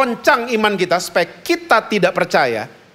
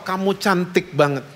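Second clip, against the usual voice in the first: soft, loving praise as she leaves; tender compliment; 4 dB quieter than usual. Retold or imitated. Father seeing his daughter off to school, soft and loving. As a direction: quietly reassure her she is beautiful. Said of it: "Dia S M P mau ke sekolah".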